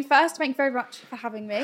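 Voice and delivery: talking with a burning mouth. Real, not acted. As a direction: lips stinging from hot sauce. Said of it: "I can't even speak".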